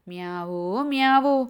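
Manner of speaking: lightly voiced cat cries; kitten meowing. Kitten meows in the story.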